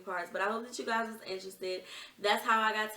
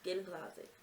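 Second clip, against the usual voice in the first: urgent hush; 3 semitones lower, 10 dB quieter than usual. Retold or imitated. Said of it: "she was like".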